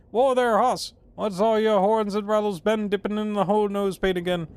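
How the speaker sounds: hammed-up Old West cowboy; Gabby. Player voicing a character greeting the dinosaur, hammed-up cowboy. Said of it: "Gabby doesn't talk like that".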